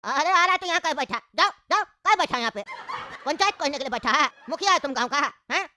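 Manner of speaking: mildly heated scolding; angry shouting. Acted. Grandfather scolds a waiting passenger over a missed birthday, angry. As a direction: tell him off in an irritated burst. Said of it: "मेरे पे क्या चिल्ला रहा है तुम?".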